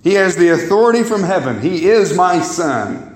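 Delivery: slow, solemn proclamation from heaven; voice of God. Retold or imitated. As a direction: announce each phrase slowly, like the Father speaking.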